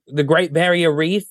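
high put-on Australian, rising end; name it as a fake Aussie, voice lifted; mock Australian accent. Australians name their famous sight, mock Australian accent. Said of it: "They say".

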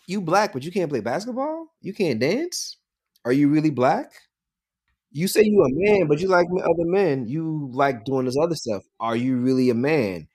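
high, challenging voice doubting who you are; mock incredulous questioning. Mocking the people who ask if you're really black or a man. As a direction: throw the doubts back like the skeptics do.

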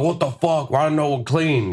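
high-pitched mock complaint; retold exasperated gripe; pulling a Dave. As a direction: act out getting mad at everyone, voice up. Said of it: "You know, pulling a Dave".

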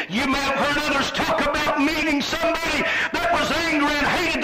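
full-force preaching, building. Acted. Preacher warning of what's coming to meet you, building full-force preaching. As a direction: drive it upward into urgent, chanted cries.

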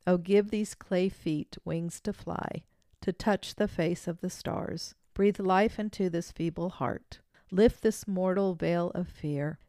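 gentle recitation of a song verse; poem reading. Acted. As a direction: read it like a farewell hymn, holding back tears. Reads song verse aloud.

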